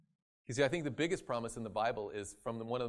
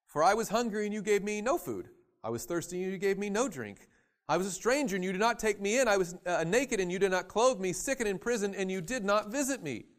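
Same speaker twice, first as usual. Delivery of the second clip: voicing the judge; 6 semitones higher, 7 dB louder than usual. Preacher voicing Jesus' judgment.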